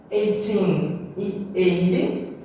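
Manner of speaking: slow, careful "Eighteen e eighty", stress moving from end to start; eigh-TEEN, then EIGH-ty, spaced out; contrasting stress. Shown as a demonstration. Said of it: "sempre lembrando de diferenciar qual que é a stressed".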